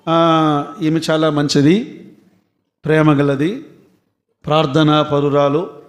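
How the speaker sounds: mock funeral praise. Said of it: "అని గట్టిగా చెప్తారు".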